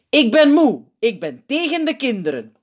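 put-on high, loud confused old Sint; Sint on the mic. A narrator's reading. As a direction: announce it innocently. Sint on microphone.

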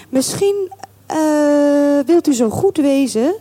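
gently hesitant polite request; mild tone. A narrator's reading. Colonel's wife asking the landlord a favour, mild. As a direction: ask it mildly, feeling for the words. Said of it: "op een milde toon".

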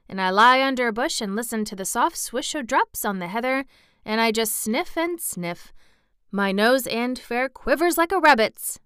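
put-on lively Yorkshire boy character; country lad, enthusiastic. Boy telling of sniffing on the moor, delighted. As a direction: relish it in a country dialect. Voices Dickon in story.

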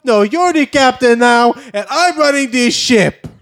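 put-on high-pitched accented pirate taking command; insistent, high, thickly accented pirate voice; movie pirate. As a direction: seize the ship like a film hijacker. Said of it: "Did you audition for Captain Phillips?".

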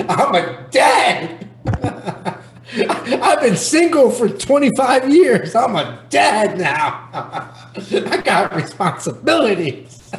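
laughing through the words, slow; real amused laughter while talking; chuckling slowly at himself. Real, not acted. Laughing at becoming a dad.

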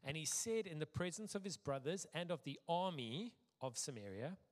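measured, deliberate public Bible reading; scripture reading. A narrator's reading. Preacher reading Nehemiah aloud to a congregation, measured and deliberate. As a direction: read it out formally, phrase by phrase.

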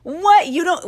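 shocked high what; a startled disbelieving what; surprised. Real, not acted. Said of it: "surprised she never heard".

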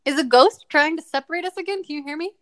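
bad connection call; calling out over a choppy line; phone held away. Real, not acted. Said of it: "This ghost doesn't want me to give you a compliment".

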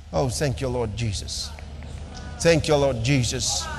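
low, repeated thanksgiving to the Lord; prayerful thanks. Real, not acted. Preacher leads thanksgiving prayer.

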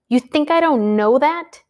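snapped. Acted. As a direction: bite the words back at them. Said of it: "Danny snapped".

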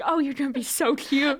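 imitating a gushing cat owner; mock delighted cooing; all excited. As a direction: fuss excitedly over a pet. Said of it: "he's just all excited".

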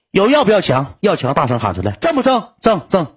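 imitating the assistant's hyped-up cheer; mock rally shout. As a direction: hype it up like a motivational coach.

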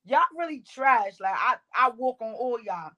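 a hint of a cocky coach; imitating the coach's roast. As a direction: mimic the leader calling everyone trash. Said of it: "it literally go".

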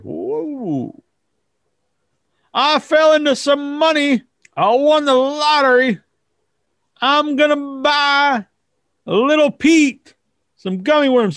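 slow, drawn-out country uncle; hick uncle. Retold or imitated. Uncle announcing his lottery win, slow and lightly voiced. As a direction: announce it like a dumbfounded yokel.

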